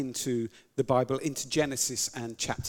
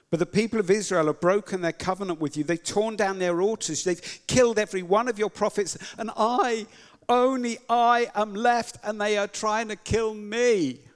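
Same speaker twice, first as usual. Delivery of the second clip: louder, higher, pleading faster and faster; rising desperate plea; 5 semitones higher, 5 dB louder than usual. Acted. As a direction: build the complaint to a desperate peak. Elijah's desperate complaint to God.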